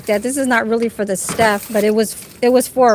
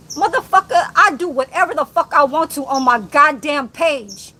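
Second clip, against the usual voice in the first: heated, raised voice; angry; 2 semitones higher than usual. Real, not acted. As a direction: snap it out in anger. Angry rant at a rival.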